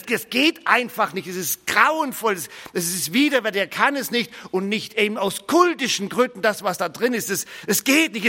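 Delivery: Peter's horrified protest, rising; disgusted refusal. Acted. A preacher voicing Peter refusing the meal in disgust. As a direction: recoil from the food, refusing.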